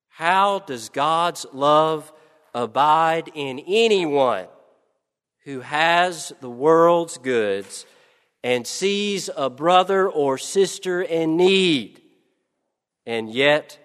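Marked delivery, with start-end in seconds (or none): none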